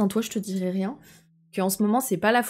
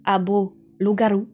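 mock Mexican accent; slower than usual. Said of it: "parler avec un accent mexicano".

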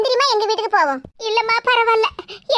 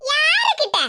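laughing retort; 5 semitones higher, slower than usual. Acted. Caught out, retorts.

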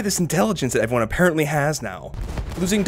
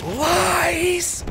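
very high, drawn-out squeal; mock outrage; 12 semitones higher than usual. Gamer accusing the game of lies, high mock outrage.

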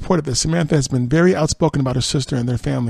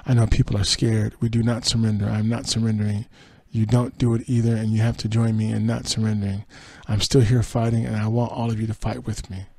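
headline, then story in an even reading voice; news read. Acted. Host reading Meghan McCain's tearful return, news read. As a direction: read the item out evenly. Reads a quoted statement.

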